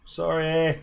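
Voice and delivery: mock-apologetic Canadian accent. Canadian hunter to his prey, mock-apologetic accent. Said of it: "Canadians are so apologetic".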